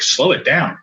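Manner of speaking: retold stunned echo, pitch jumping within it; shaken disbelief. Father throwing the neurologist's words back, in shaken disbelief. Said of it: "I was shook by it".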